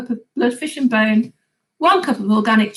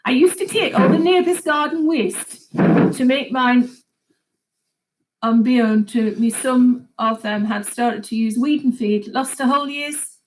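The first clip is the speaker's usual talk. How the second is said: The speaker's accent. Shown as a demonstration. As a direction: read the viewer's comment in his regional accent, slowly. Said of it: "trying to read this in your accent, Barry".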